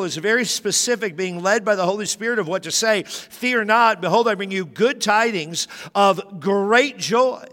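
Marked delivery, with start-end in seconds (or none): 3.0-7.5 ringing herald's announcement; angel's proclamation. Acted. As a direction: proclaim it slowly, a little louder. Quoting the angel boldly.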